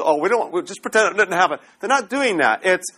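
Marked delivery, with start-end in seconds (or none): 0.0-1.6 mock dismissive. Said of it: "they're not ignoring it".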